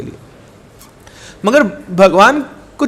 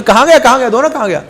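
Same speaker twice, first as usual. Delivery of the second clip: alarmed; 5 semitones higher than usual. Acted. Priest panicking over missing bowl.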